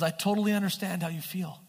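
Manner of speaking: quick, understated show of sympathy; lightly faked understanding; mock empathy. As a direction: pretend to sympathize, briskly. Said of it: "he doesn't empathize like that".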